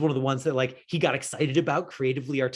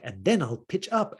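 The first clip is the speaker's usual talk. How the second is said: pitching up; 4 semitones higher than usual. Retold or imitated. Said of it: "He's like".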